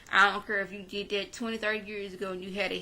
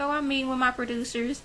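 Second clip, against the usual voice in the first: smug bragging; 5 semitones higher than usual. Retold or imitated. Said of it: "did y'all catch the way she said it".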